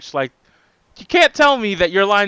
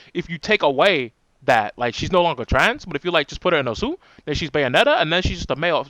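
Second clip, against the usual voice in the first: condescending voice. Pretend. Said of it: "the most patronizing, condescending, like, voice I can".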